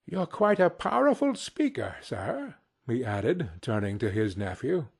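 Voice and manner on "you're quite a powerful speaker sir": high-pitched mock compliment; sarcastic praise. A narrator's reading. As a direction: flatter the nephew with irony. Scrooge sarcastically praises his nephew.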